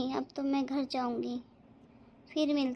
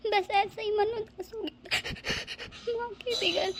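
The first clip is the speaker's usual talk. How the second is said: हल्की रुलाई में धीमे बोलना; tearful, slow; 4 semitones higher, slower than usual. Acted. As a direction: hold back the sobs as the words drag. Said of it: "क्यों रो रही है".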